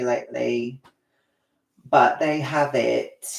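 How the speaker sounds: put-on light playful British accent; a jokey British lilt aimed at the chat. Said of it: "I don't know why I'm doing Britishy".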